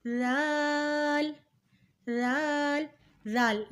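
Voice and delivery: لال begun as soft th in "this", long vowel; soft pronunciation. Shown as a demonstration. Teacher modelling the letter for learners, لال softly as dhaal. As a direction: say لال as a gentle "dhaal", not z. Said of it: "پڑھا جائے گا نرمی سے".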